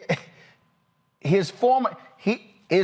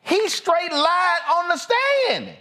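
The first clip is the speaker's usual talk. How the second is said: higher, heated and indignant; outraged disbelief; 9 semitones higher than usual. Real, not acted. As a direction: let the outrage spill out over the lie. Host outraged after the video.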